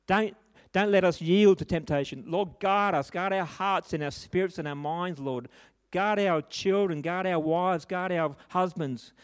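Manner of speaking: fervent pastor's prayer; earnest prayer. Acted. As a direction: pray it aloud, pleading. Leads a prayer.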